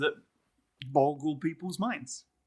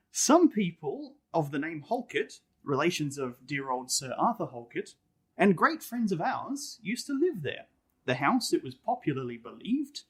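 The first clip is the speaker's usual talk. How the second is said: measured storybook reading voice; story narration. Acted. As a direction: read it like an old ghost tale, unhurried. Reading the ghost story aloud.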